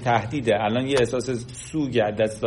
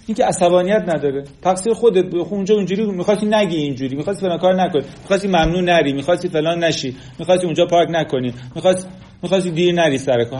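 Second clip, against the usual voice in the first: dismissive blaming; 4 semitones higher, faster than usual. Retold or imitated. Friend blaming an upset listener.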